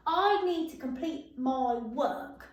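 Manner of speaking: drawn out, word by word; slow read-back. Shown as a demonstration. Teacher reading back the sentence slowly to pupils. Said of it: "reading the finished sentence".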